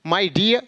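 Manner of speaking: "dear" as dee-yaa, r dropped; silent final r. Shown as a demonstration. Teacher answers how to read it, "dear" without r. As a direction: hold "dear" open on its vowel. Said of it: "तो क्या पढ़ेंगे".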